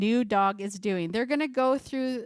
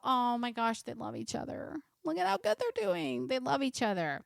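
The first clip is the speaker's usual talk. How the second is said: gushing owner; 3 semitones higher, 4 dB quieter than usual. Retold or imitated. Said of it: "and we go".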